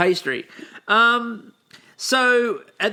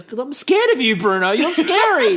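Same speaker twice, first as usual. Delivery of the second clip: laughing through it; 5 semitones higher, 4 dB louder than usual. Retold or imitated. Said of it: "He goes".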